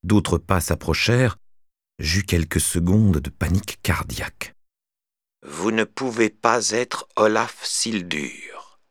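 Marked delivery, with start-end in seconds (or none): 5.5-8.8 put-on monotone old man. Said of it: "voix monocorde de vieil homme".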